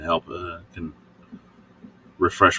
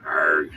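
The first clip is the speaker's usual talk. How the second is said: pirate growl; 4 semitones lower, 3 dB quieter than usual. Retold or imitated. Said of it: "He likes my pirate voice".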